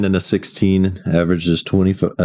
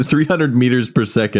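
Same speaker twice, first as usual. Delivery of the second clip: laughing; 5 semitones higher than usual. Real, not acted. Laughing while repeating the speed.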